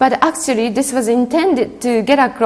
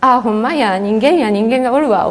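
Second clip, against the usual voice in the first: a light, modest try at an Osaka dialect lilt; a hesitant Osaka dialect demo for the class; faster than usual. Shown as a demonstration. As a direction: toss off the Osaka dialect casually, not fully committed. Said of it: "I can't really do Osaka dialect very well, but something like".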